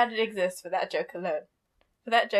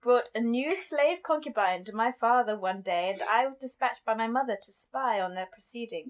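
lightly put-on posh narration; a hint of a posh lady reading aloud; posh woman. Host reading the princess's account, light mock-posh woman. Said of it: "reading it as a posh woman".

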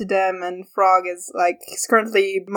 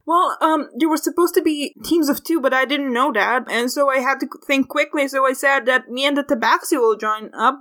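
lightly voiced higher nervous character; anxious Frog; 3 semitones higher than usual. Frog explains the sign-up mistake to Dawn, nervous. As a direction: explain yourself in a slightly higher, worried voice.

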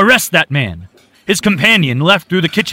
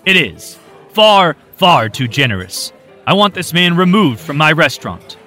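sarcastic anger; 6 semitones higher, 6 dB louder than usual. A narrator's reading. Owner mocking the gentleman's offer, sarcastic loud anger. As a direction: sneer the words far far.

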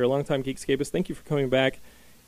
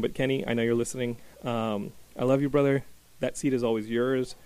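emotional; 5 dB quieter than usual. Real, not acted. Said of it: "I hate to get emotional".

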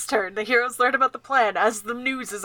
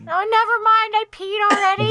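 put-on whiny kid; 10 semitones higher, 3 dB louder than usual. Kid whining in the car.

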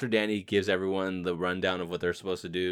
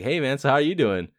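friendly greeter; 7 semitones higher, 4 dB louder than usual. Retold or imitated. Acts out an imagined friendly greeting.

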